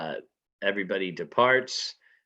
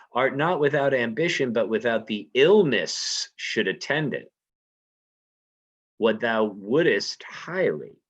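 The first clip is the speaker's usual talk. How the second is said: reading Lady Macbeth; 3 dB louder than usual. Acted. Teacher reading Shakespeare to the class, lightly dramatic. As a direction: read it like Lady Macbeth plotting.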